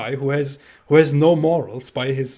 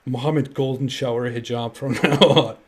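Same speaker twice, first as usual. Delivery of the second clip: laughing mockery; 6 dB louder than usual. Real, not acted. Laughing while mocking.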